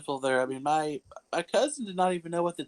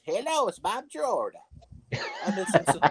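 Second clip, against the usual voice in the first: imitating grandpa. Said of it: "The papa talk like this".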